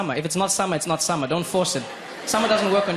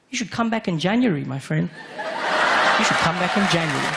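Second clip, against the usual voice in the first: mock Scottish; 3 semitones higher than usual. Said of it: "I said".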